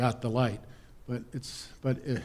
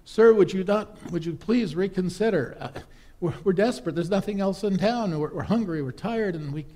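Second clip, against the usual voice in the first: desperate plea; 5 semitones higher than usual. Acted. Traveller begs desperately.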